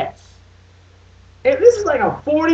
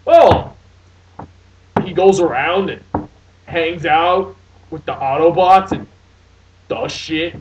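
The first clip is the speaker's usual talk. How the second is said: mock lazy answer; 6 semitones lower, 3 dB louder, slower than usual. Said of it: "somebody asked him".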